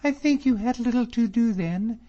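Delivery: high, loud, proud reproach; indignant cry. A narrator's reading. Miss Drummond rebuking David over her father, high indignant cry. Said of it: "she cried out".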